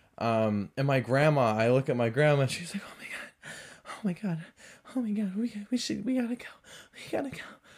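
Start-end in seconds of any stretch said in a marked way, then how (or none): 2.9-7.4 acted, frantic, breathy, panicked fretting whisper. Retelling a grandma during a knife threat: imitating Barbara panicking. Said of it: "Barbara, chill out".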